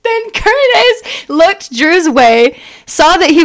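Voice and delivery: slow, high, drawn out; dramatic slow read. Acted. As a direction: stretch it like a soap opera. Dramatic reread, laughing.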